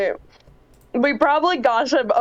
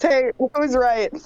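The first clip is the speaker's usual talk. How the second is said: slow, gentle wake-up question. Acted. Selena waking Edwin for shift, gently. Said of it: "In a very gentle way".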